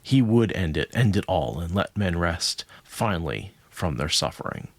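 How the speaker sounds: measured, dramatic story reading with falling cadences; book narration. A narrator's reading. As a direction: read it out like an epic tale, sinking towards the end. Reads book passage aloud.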